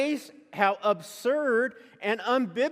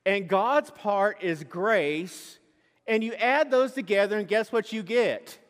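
mock preacher explaining. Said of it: "And he goes".

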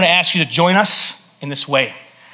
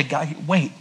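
God answering; 3 semitones lower, 6 dB quieter than usual. Retold or imitated. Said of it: "He'll say".

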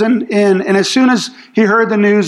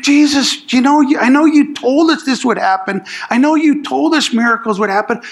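pumped up; 4 semitones higher than usual. Retold or imitated. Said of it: "the disciples were pumped".

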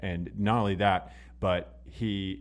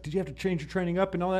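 interviewer voice; 10 semitones higher, much faster than usual. Retold or imitated. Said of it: "So it's like".

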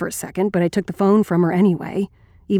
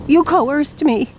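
higher, slow accusation; accusing; 7 semitones higher, slower than usual. Acted. Blaming someone for the choice, high slow accusation. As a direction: lay the blame slowly. Acted quarrel, accusation first take.

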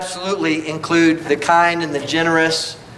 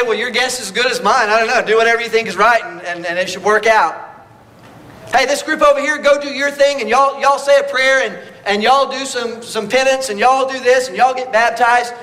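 mock careless advice; 4 semitones higher than usual. Mock Peter giving vague advice.

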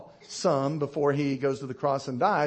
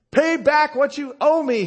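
higher, louder mock demand; 8 semitones higher, 6 dB louder than usual. Servant demanding his fellow repay, mock angry demand. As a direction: bark it like a greedy creditor. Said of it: "he demanded".

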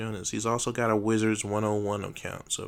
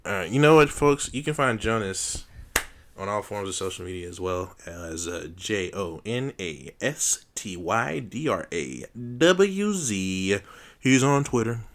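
announcer hype; 7 dB louder than usual. Acted. Announcer plug for co-host.

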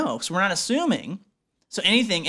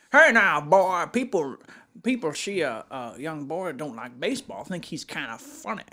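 Foghorn Leghorn impression. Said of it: "Foghorn Leghorn jokes".

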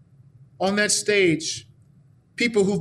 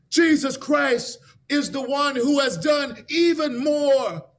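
preaching shout; 5 semitones higher, slower than usual. Acted. Climax of sermon.

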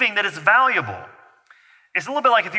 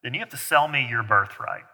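a hint of a cunning schemer striking a deal; sly and cunning; 2 semitones lower than usual. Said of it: "being very sly and cunning".

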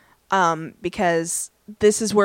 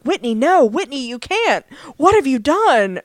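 mock-dismayed pleading, a bit louder; retold alarmed plea; 4 semitones higher, 3 dB louder than usual. Chadwick protesting to Whitney, in retold alarm. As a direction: act out a mild, dramatic protest.

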